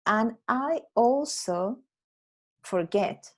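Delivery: slow careful model sentence; teacher modelling the fix; corrected sentence, slow. Shown as a demonstration. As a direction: spell out the right version slowly. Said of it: "tendría que haber sido algo como".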